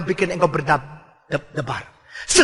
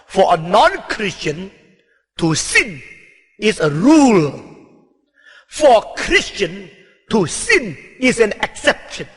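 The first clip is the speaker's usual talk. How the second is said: slow English maxim; slower than usual. Shown as a demonstration. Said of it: "saya memakai bahasa Inggris berkata".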